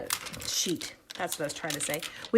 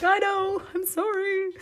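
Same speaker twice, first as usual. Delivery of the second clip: sheepish apology; 12 semitones higher, slower than usual. Retold or imitated. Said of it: "I'm like".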